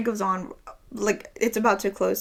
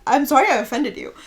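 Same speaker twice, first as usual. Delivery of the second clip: mock apology; 4 semitones higher than usual. Retelling her reply to the woman, mock apology. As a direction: exaggerate the apology, pitched up.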